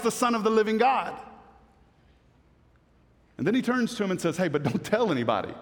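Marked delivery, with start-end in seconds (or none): 4.4-5.5 quick hushed aside. Retold or imitated. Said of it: "not just lightly and flippantly saying".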